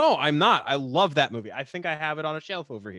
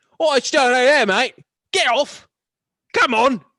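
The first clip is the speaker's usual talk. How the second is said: put-on British accent, much higher, louder; 9 semitones higher, 10 dB louder than usual. Asked for a UK one, the speaker does a British accent. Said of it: "Give me a U K one".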